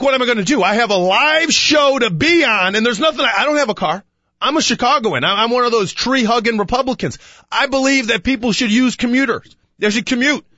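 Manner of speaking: retold exasperation. Acted exasperated rant after missing train.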